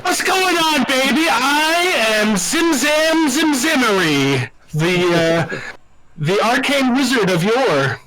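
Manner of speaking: lightly voiced smooth-talking wizard; a hint of a slick showman introducing himself; loosely hammed-up pimp wizard. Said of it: "my new pimp wizard role".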